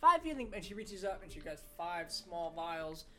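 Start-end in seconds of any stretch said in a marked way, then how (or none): 0.0-0.5 put-on little old lady voice. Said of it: "this is my little old lady voice".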